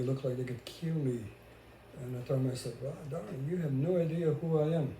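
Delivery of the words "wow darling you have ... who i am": retold retort. Exasperated retort he says to himself.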